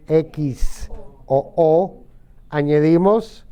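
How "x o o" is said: each letter drawn out slowly; slow spelled letters. Shown as a demonstration. Teacher spells endings slowly for students. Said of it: "Recuerden cuando es che".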